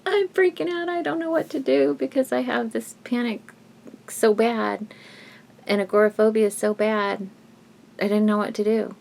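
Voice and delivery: high, breathless retelling of panic; panicked quote. Retold or imitated. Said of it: "and I was just like".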